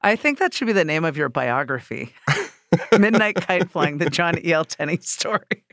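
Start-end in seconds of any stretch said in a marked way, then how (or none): 2.5-5.7 laughing through the words. Real, not acted. Host joking about the biography title, laughing. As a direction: chuckle as you say the joke title.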